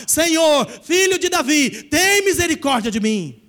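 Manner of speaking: persistent crying out. Retold or imitated. The woman still crying after Jesus, loud and pleading. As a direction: keep pleading, refusing to give up. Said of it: "ela continuou a clamar".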